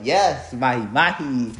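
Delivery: mahi mahi with a Hispanic accent. Shown as a demonstration. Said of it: "Hispanic accent sounds like this".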